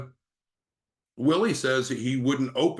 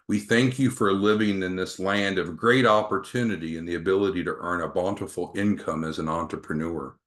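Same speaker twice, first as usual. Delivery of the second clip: lightly voiced older man praying, lower toward phrase ends; Joseph's gravelly prayer; 3 semitones lower than usual. Salesman opens a call with Joseph's prayer, lightly imitated gravelly voice. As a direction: pray aloud with a hint of gravel. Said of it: "in his more gravelly voice".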